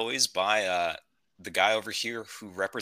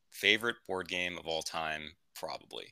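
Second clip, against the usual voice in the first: soft, lower repeat like an echo; quiet echo; 5 semitones lower, 8 dB quieter than usual. Shown as a demonstration. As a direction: fade it out as an echo. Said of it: "And today we're talking about my favorite board game".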